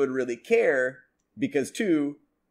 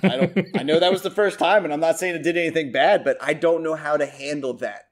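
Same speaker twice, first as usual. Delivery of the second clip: flustered inner voice; 3 semitones higher, 5 dB louder than usual. Retold or imitated. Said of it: "You go".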